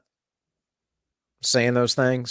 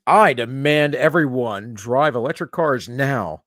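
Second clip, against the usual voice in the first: mock Greta. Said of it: "Greta says".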